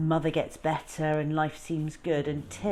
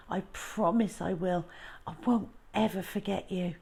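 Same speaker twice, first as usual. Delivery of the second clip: tender farewell; 3 semitones higher than usual. Acted. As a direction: hush it, like a heartbroken promise. Boy's tender farewell to lion.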